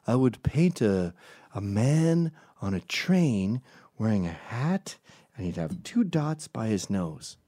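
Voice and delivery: slow, deliberate mock painter; lightly mocking slow painter explaining. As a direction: drag it out like a fussy artist. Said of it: "what do they do in Asia".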